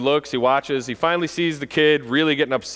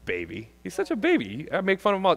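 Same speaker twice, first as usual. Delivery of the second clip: mocking sneer; 2 semitones higher, 5 dB quieter than usual. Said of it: "Kids do this".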